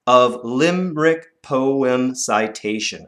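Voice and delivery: slow, measured line; slow recital. Shown as a demonstration. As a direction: read it slowly for counting. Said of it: "One, two".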